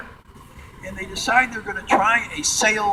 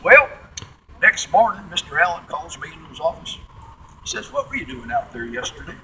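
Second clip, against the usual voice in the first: Midwesterner's attempt at a Texas accent; 5 dB quieter than usual. Test pilot Tex Johnson recounting the boss's questions, Texas accent. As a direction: imitate a laconic Texan test pilot. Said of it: "try my darndest to do a Texas accent".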